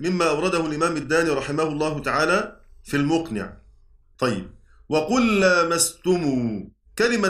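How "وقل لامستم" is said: slow recitation. Shown as a demonstration. Teacher recites line of poem.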